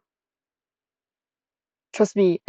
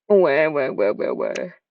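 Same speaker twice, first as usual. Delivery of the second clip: wailing, drawn-out where, sinking low; hammed-up crying wail; long mock cry; 4 semitones lower, slower than usual. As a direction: sob the wheres out theatrically. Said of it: "That's a long ass cry".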